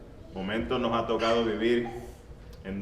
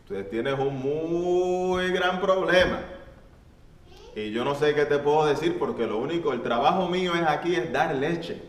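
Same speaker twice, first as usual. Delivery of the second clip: lowing cow; 3 semitones higher than usual. Acted. Cow answers the mouse.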